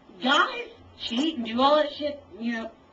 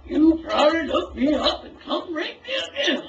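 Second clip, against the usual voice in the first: shouting the accusation, voice raised; angry shout; 5 semitones higher, 5 dB louder than usual. Real, not acted. Woman yelling at a man on cam, angry shout. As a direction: hurl it at him, loud and bitter.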